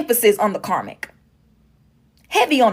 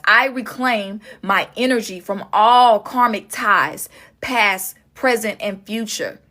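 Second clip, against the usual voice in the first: slow affirmation; slower than usual. Shown as a demonstration. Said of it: "speak this out loud right now".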